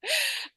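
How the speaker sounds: brief high giggle; leftover giggle. Real, not acted. Still laughing about crying kids.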